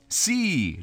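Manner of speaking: mock-amused child's yes. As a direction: answer with a child's delight. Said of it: "rispose lui divertito".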